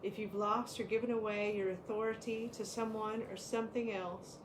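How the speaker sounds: calm, measured reading of an oracle card. Acted. Co-host reading the power card aloud, calm and measured. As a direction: read the card's message to the listeners steadily.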